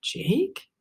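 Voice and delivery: high, hurt, stunned question; the word lands like a blow; shocked question. Acted. Soup asks Jake in shock, high and disbelieving. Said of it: "a terrible one-word question".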